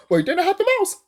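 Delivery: giggling the words out high and loud; laughing. Real, not acted. Joking about the mouse to viewers, laughing high.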